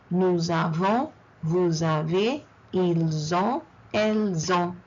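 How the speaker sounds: nous avons to elles ont, silent final letters, Z linking; liaison drill. Shown as a demonstration. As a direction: link nous avons as "nou-za-von", likewise to elles ont. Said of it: "Can you notice that in nous avons".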